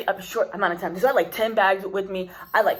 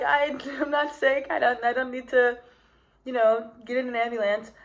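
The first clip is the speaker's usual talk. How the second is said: laughing protest; 4 semitones higher than usual. Retold or imitated. Protesting she is not sick.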